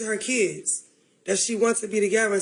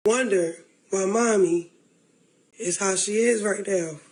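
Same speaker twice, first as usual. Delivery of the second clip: near tears; 4 semitones lower than usual. Real, not acted. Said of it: "I'm ready to start crying".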